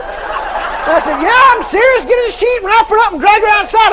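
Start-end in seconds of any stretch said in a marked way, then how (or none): 1.2-3.9 loud, high-pitched insistent command; raised voice, brooking no argument; emphatic order. Retold or imitated. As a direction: re-enact giving urgent orders at full volume. Insistent order acted in retelling.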